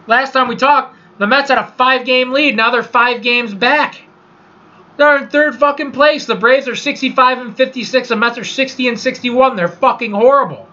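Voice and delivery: frustrated rant. Real, not acted. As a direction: vent in disbelief at the team's collapse. Ranting about his losing team.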